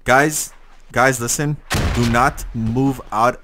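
loud urgent call to the squad. Real, not acted. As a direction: shout to get the squad's attention. Rallying squad over comms.

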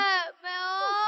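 fast, wailing cries for mom; sobbing child. Acted. Child to absent mother, wailing and sobbing. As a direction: call for mother through sobs.

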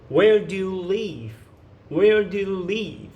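slow, careful model phrase for learners; teacher says it slowly for students to repeat; slow model sentence. Shown as a demonstration. Teacher modelling a question slowly for students to copy. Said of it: "이렇게 물어보시면 돼요".

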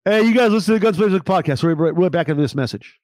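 radio-style throw to a break; radio host. Pretend. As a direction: send the listeners off to commercials. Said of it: "My radio brain takes over and I go into commercial".

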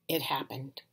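dramatic hushed whisper; suspense whisper. A narrator's reading. Suspense moment in story.

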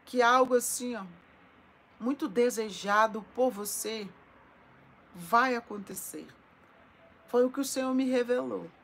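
loud, swelling prophecy with long held words; prophetic preaching. Acted. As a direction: proclaim it like a revelation over the flock. Proclaims prophecy over viewers.

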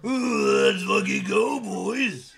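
high, loud hype cheer; coaching his wife how to cheer; loud and proud. Shown as a demonstration. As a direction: shout it proudly. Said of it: "say loud and proud".

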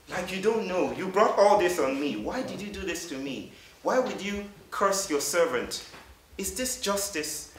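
high, loud anguished protest hurled upward; railing at God. Retold or imitated. Job rails at God over his losses, high and loud. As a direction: Job demanding answers from God, pitched high. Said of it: "And he's railing at God".

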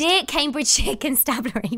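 "Dear Cambridgeshire Constabulary" said carefully in one breath; proper pronunciation. Shown as a demonstration. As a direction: read "Dear Cambridgeshire Constabulary" as a formal greeting. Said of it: "But say dear first".

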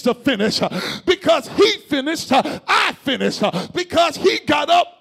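rhythmic preacher cadence; preaching. Acted. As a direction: call and response preaching. Preaching call and response.

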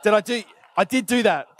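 a sudden hammed-up yelp of worry; mock panicked outburst. Worker panicking as the boss calls, mock outburst. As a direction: blurt it out in mock alarm. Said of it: "you're going through".

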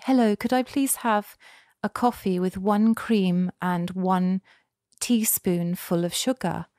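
put-on politely enunciated order in her non-Canadian accent; careful, accented drive-through order; own foreign accent, careful. Newcomer ordering coffee at a drive-through, careful foreign accent. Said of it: "they couldn't understand a word I was saying".

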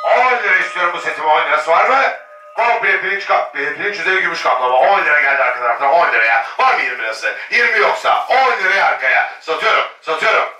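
rapid auction bid calling; auctioneer. Real, not acted. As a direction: call the bids like an auctioneer. Live auction calling bids.

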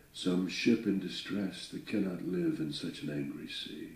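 measured, dramatic recitation of a ballad; poem reading. A narrator's reading. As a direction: read it like an old sea ballad. Reads Longfellow poem aloud.

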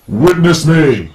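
loud, drawn-out high shout; over-the-top, slow triumphant battle yell; battle cry. Pretend. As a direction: yell it like a charging war cry.

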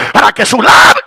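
shouted preaching climax; fiery preacher shouting; full-force preaching. Acted. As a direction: preach it out loud to the crowd.

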